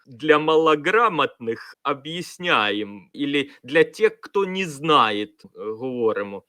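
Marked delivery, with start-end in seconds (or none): 0.1-3.1 slow, drawn-out mock condescension; condescending remark. Commentator mocking the host's notes for the poorly educated, condescending. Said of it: "зауваженнями типу". 3.6-5.2 slow, louder imitation of a patronizing host; mock explaining down to the ignorant; condescending remark. Commentator quoting the host's asides for those who don't know, condescending. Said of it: "зауваженнями типу".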